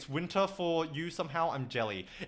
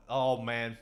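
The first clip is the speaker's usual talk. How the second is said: ordinary talk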